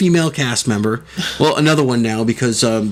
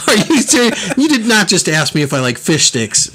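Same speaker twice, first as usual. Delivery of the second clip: higher, laughing mock indignation; mock outraged disbelief, pitched up; mock outrage; 5 semitones higher than usual. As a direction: act scandalized, half laughing. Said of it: "I'm like".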